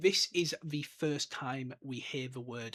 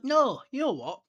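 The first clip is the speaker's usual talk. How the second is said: much higher, louder sudden change of mind; changing his mind; 10 semitones higher, 8 dB louder than usual. Retold or imitated. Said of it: "and he's like".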